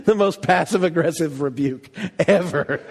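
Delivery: chuckling through the words; amused disbelief, laughing as you say it; laughing aside. Retold or imitated. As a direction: listener laughing at a sly rebuke. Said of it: "It's like".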